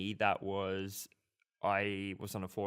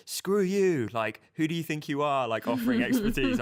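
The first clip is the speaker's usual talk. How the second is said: higher and louder mock outrage; mock angry forum users; 7 semitones higher, 7 dB louder than usual. Forum users rejecting his free advice, mock indignant shout. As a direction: throw back the hostile reply, indignant. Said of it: "everyone was like".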